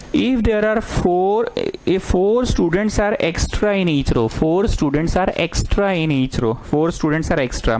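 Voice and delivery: very slow, spaced dictation; teacher dictating the problem to students, very slow. Acted. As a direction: read it out slowly so everyone can write.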